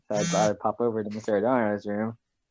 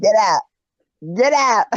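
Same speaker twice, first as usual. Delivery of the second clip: high, loud hammed-up yelling; mock angry shout; 11 semitones higher, 7 dB louder than usual. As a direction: imitate a furious coach throwing someone out. Mimicking coach kicking someone out.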